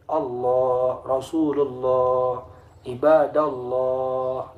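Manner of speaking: ALLAH, RASULULLAH, IBADALLAH with long 'o' endings, 'Alloh'; thick O sound. Shown as a demonstration. Teacher sums up tafkhim for pupils, drawn-out thick O. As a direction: hold each final 'lloh' slow and level. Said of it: "lafaz Allah itu bersuara O".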